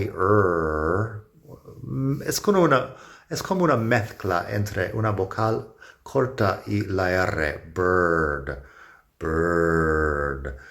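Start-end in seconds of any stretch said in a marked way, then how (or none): 0.0-1.2 "er" as a relaxed central vowel merged with the r; teacher isolating the er sound. Shown as a demonstration. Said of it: "Fíjate en la vocal ahí". 7.7-10.6 "bird" with a relaxed central er and no clear vowel; relaxed-throat bird. Shown as a demonstration. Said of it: "Tienes la garganta un poco relajada".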